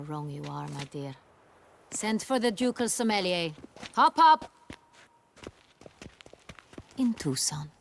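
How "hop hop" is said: loud, high-pitched call; ringing, high order to get moving; imperious command. Acted. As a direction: hurry the servants along sharply. Duchess hurries servants to obey.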